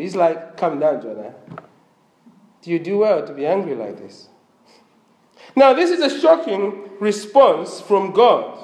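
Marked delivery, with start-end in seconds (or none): 0.6-4.3 gentle. Retold or imitated. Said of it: "the Lord is very gentle there".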